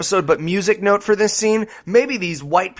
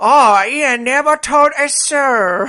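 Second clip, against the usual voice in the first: hammed-up, slow Southern drawl, higher; exaggerated Southern accent; 6 semitones higher, slower than usual. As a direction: overdo the Southern accent and stretch it out. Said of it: "a Southern accent, and I'm fucking it up".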